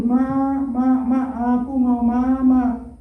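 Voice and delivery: mild whimpering plea for mama, drawn out; crying child. Retold or imitated. Preacher voicing a child left behind, mild mock whimper. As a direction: lightly play the small boy crying for his mother. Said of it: "Dia nangis terus".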